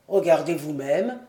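voix grave et forte, chaleureuse et encourageante; vieux docteur ému. A narrator's reading. (le docteur félicite Diane, voix grave et émue)

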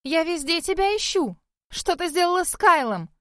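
angry demand. A narrator's reading. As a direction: she storms up and demands answers. Cheryl angrily confronts the heroine. (возмущённое требование, голос заметно выше)

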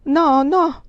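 horrified murmur. A narrator's reading.

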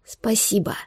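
soft whispered thanks; mouthed whisper. A narrator's reading. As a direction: barely voice it. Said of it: "одними губами произнесла".

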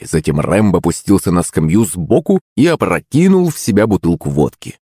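ordinary delivery, nothing marked

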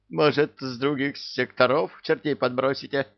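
plaintive deputy. Acted. Deputy pleading with boss.

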